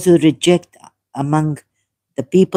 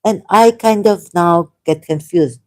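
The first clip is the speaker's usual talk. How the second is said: usual speaking voice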